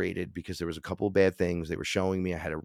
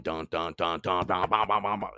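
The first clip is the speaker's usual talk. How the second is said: heartbeat sounds. Retold or imitated. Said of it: "my heart started going".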